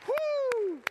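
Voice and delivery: high whoop, big cheer for the wives. Real, not acted. Pastor cheering as the church applauds their wives, a high whoop. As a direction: throw out a joyful high woo.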